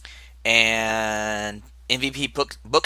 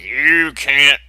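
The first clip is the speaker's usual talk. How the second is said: mock angry outburst; 4 dB louder than usual. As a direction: imitate someone mad, hit the opening hard. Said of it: "is all mad and upset".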